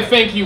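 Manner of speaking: "thank you" said with a doubtful rising question. Retold or imitated. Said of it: "with the biggest question mark".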